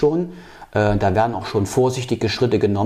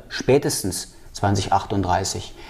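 "spätestens" set apart with deliberate emphasis; measured, insistent weight on "spätestens"; stress on spätestens; 3 semitones lower, 3 dB quieter than usual. Real, not acted. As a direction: underline the word "spätestens" before giving the year. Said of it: "ich betone".

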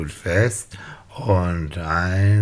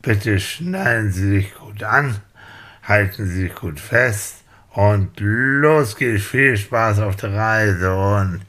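airline pilot announcement. Pretend. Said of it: "hier spricht Ihr Flugkapitän".

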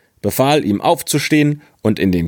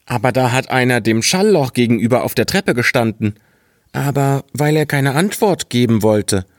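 higher, quicker naive lad explaining; naive boy; 4 semitones higher, faster than usual. Acted. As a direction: rattle it off as the guileless boy, pitched up.

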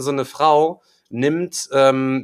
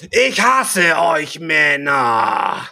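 loud, high, drawn-out man-hating yell; imitated screaming; 4 semitones higher, 5 dB louder, much slower than usual. Angry woman at the checkout screaming at him, imitated shout. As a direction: mimic her furious scream, stretching the words. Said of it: "schreit mich an".

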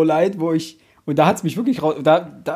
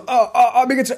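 slapstick heart attack; 7 semitones higher than usual. Pretend. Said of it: "als Slapstick-Moment".

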